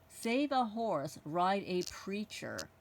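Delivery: "preacher" set apart, each word drawn out slowly; slow, deliberate reading of "Save a horse, ride a preacher". Shown as a demonstration. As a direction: read the altered slogan slowly to show the changed word. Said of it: "they wrote".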